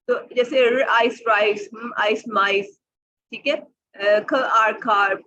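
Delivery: र आइस राइस, stretched slowly; slow blending. Shown as a demonstration. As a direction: join sounds step by step. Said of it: "ये एक sound बन गई है". (धीरे-धीरे जोड़ना)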